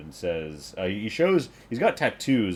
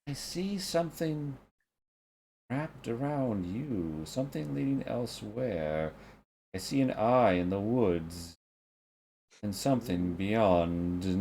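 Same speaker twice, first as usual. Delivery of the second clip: mysterious seer. Acted. Priest peering closely at Lonnie, hushed and mysterious.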